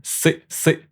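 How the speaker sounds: "C" breathed, closing on an ay glide; French C ending on A. Shown as a demonstration. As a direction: end each "C" with a slight ay. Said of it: "some A sound at the end".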